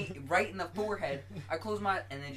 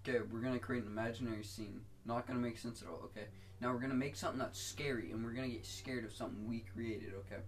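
brain's voice; 5 semitones lower, 7 dB quieter than usual. Retold or imitated. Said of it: "why do our brains do this?".

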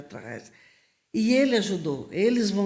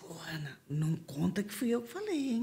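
whisper; 8 dB quieter than usual. Retold or imitated. Soldier passing a secret tip.

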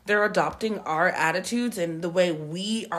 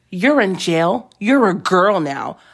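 put-on slow, loud bossy child; a loud, slow mock of the bossy little girl; stern kid voice; 7 dB louder, slower than usual. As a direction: boss them like a tiny jail warden. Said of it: "She's like".

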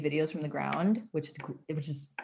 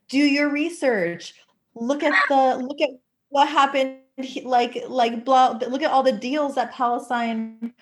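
mock online arguer, pitched high and louder; imitating insistent posters; 7 semitones higher, 5 dB louder than usual. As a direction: raise pitch and volume to parody a pushy know-it-all. Quoting pro-Israel posters' insistent demands.

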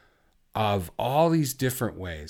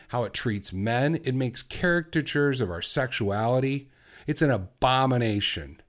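passionate rant; 2 semitones higher than usual. Real, not acted. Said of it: "I never talk like this on this show".

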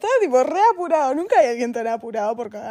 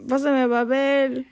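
mock call for paper; slower than usual. Friend pretending to be stuck in a toilet without paper, mock calling out. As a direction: call out slowly, only half-shouting. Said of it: "Yo grito".

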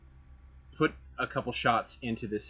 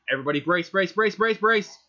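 yelling brace, rising higher each time; shouted warning; 9 semitones higher, 8 dB louder than usual. Pretend. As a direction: bark the warning as the crash hits. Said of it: "my first reaction would be like".

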